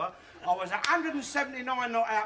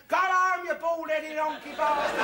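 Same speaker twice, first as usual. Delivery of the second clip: mock crowd yell; 5 semitones higher, 3 dB louder than usual. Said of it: "all the coons are yelling".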